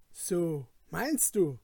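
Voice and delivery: mildly eager questioning reply; eager retort. Acted. Felix retorts to his companion, eager. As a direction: push back keenly. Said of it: "entgegnete Felix sehr eifrig".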